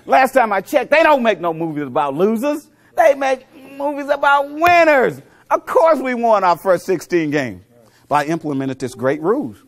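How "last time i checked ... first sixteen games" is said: rousing shout. Real, not acted. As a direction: bellow it like a fired-up preacher. Preaching the winner message.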